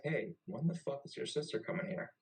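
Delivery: retold impatient complaint; annoyed demand. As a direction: imitate being fed up with waiting. Confronts roommate over late sister.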